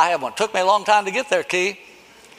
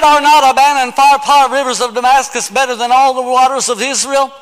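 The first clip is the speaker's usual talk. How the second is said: mild indignant Naaman; 4 semitones higher, 5 dB louder than usual. Acted. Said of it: "He said".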